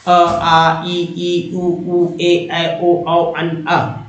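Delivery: अ, आ, ई, ई said in open pairs, nothing touching; स्वरों का उच्चारण, अ से अः तक; vowel recital. Shown as a demonstration. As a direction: recite the Hindi vowels pair by pair. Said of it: "जैसे अ से अह तक बोलिए".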